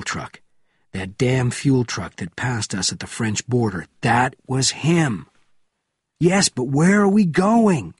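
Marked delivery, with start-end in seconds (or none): 6.2-7.9 high, loud, urgent shout; shouted question. A narrator's reading. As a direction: shout the question over the noise. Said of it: "Benjamin shouted".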